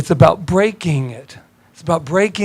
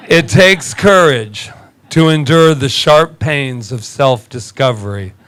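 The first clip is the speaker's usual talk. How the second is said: quote reading; slower than usual. Shown as a demonstration. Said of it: "I'll say that again".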